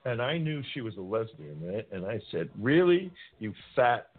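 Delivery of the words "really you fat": high, hammed-up yell back at the principal; mock furious comeback, pitch climbing; retold angry yell. Teen cursing out the principal, hammed-up yell. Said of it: "I'm screaming".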